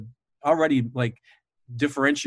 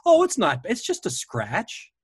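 mock nervous Renfield; 9 semitones higher than usual. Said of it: "And Renfield goes".

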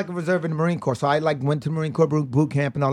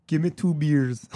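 attempted Scottish accent; slower than usual. Shown as a demonstration. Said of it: "I, I can try it".

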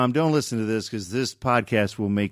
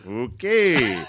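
retold backing off. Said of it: "I went".

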